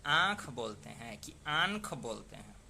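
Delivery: आँख said first as nasal aankh, then with a clear n as ankh; teacher contrasting two sounds of आँख; nasal vowel versus n sound. Shown as a demonstration. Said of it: "कि हम क्या बोलते हैं".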